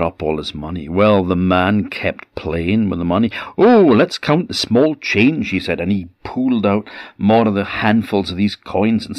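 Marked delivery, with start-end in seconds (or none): 3.6-5.5 much higher, louder cheerful cry; playful, high excited voice of a trickster; gleeful. Acted. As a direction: delight in the coins like a child. Man gleefully plays with coins.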